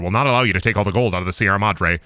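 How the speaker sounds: low, quick assistant's explanation; lightly voiced deferential underling; Smithers. Smithers explaining carrying capacity to his boss, lightly voiced assistant.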